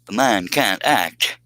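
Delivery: slow halting Shatner delivery; Shatner drama. Shown as a demonstration. Trying a Shatner for viewer Dale, slow halting drama. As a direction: drag each word out with big dramatic pauses. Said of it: "did I even get close to nailing it".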